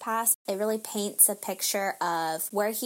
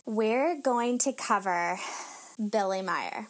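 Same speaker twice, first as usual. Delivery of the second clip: dramatic. Acted. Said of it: "the way you said that was just like".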